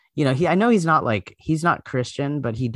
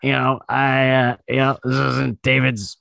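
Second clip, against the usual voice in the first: light Pete Davidson voice; a hint of Pete Davidson; Pete Davidson impression; 3 semitones lower than usual. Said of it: "Pete Davidson's here".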